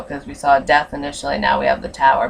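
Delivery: normal talking voice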